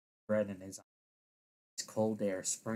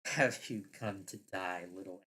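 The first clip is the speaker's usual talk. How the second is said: mocking. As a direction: taunt them, dragging the words out. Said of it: "say in a mocking tone".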